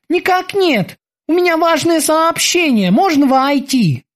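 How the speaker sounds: high, eager sailor's voice; squeaky dutiful boatswain. Acted. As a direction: report to the captain like a keen young sailor. Boatswain Kiki reports.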